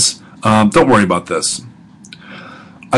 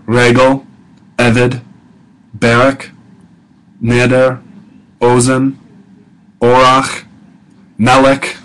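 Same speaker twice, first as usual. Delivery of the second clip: "Regel, eved, barak, neder, ozen, orach, melek", each stressed on its first syllable; slower than usual. Shown as a demonstration. Teacher listing two-syllable Hebrew words for students, each stressed on the first syllable. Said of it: "stress on the first syllable".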